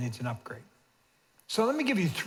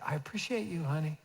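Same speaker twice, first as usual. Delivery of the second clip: tender; 6 dB quieter than usual. Retold or imitated. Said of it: "this morning I said".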